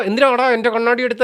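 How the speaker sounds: mock-angry challenge. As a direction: imitate him snapping over his glasses. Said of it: "എന്ന് പറഞ്ഞ് ദേഷ്യപ്പെടാം".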